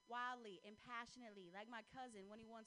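put-on a touch of country accent. Girlfriend sweet-talking her boyfriend as asked, mild country accent. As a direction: play it lightly country. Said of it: "like, in a country accent".

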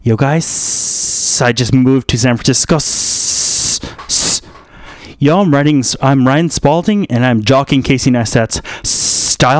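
lightly put-on YouTuber, trailing long S's; lightly mock a vlogger, stretching the final S; Ryan Spalding. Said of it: "Ryan Spalding's like this. She's like".

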